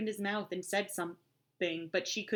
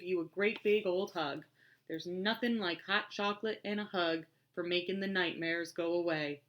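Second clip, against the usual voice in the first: reassuring deep voice. Acted. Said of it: "He had a deep, reassuring voice".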